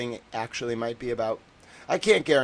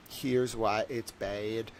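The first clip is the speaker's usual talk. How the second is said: slow, gentle explaining; 3 dB quieter, much slower than usual. Retold or imitated. Telling a relative gently why buying people is wrong. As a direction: ease them in slowly and kindly. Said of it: "you should be gentle and be like".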